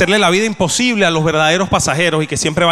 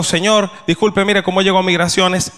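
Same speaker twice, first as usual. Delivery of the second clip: careful and polite. Shown as a demonstration. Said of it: "Eso fue lo que yo creía haber dicho".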